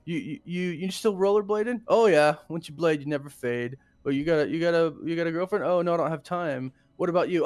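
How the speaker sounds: awkward exes. Retold or imitated. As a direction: fumble it like old flames. Acted awkward exes' chat.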